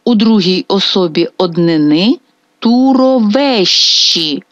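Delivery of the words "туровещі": туровещі slowly, Е stressed and final І unstressed; slow, higher туровещі with stressed Е. Shown as a demonstration. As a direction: lean on the Е in туровещі, letting І drop. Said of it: "Наголос падає на Е і не наголошена".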